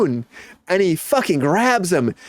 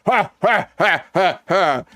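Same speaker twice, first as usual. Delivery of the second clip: imitated exertion noises; 3 semitones higher, slower than usual. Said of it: "and he goes".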